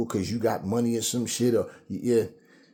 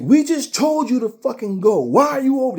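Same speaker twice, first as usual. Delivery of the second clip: much higher, louder, a woman's shrieking yell at the cop; hyper yelling; 14 semitones higher, 8 dB louder than usual. Retold or imitated. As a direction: shriek it at him, fed up. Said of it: "they start getting all hyper".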